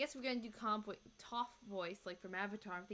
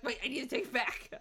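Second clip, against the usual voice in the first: giggling through the words; laughing. Retold or imitated. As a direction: laugh while saying it. Quoting herself while giggling.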